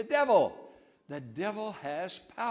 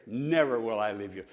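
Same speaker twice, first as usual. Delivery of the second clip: soft quote; 6 semitones lower than usual. Shown as a demonstration. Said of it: "so comforting to me".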